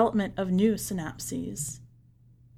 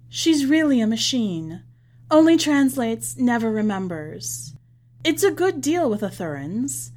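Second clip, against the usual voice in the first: louder, brisk salesman's pitch; boastful envoy; 2 semitones higher, 3 dB louder than usual. Acted. Envoy bragging about the machine to the businessman, louder and boastful. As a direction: sell the deal with pride.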